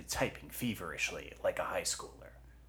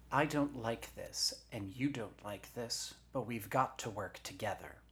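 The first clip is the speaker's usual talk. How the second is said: firm, higher-pitched heroine; lightly voiced Eugenia; 5 semitones higher than usual. Eugenia to her shoulder while driving, firm and higher. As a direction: lay it down firmly, pitch raised.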